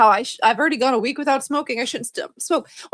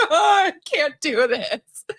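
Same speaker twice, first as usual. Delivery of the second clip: mock panic; 4 semitones higher, slower than usual. Quoting her panic at dentist.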